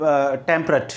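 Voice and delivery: टेम्परेट said carefully as TEM-pə-ret; correct pronunciation. Shown as a demonstration. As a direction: give टेम्परेट clearly, stress on the first syllable. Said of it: "इसका pronunciation होगा". (टेम्परेट साफ़ उच्चारण)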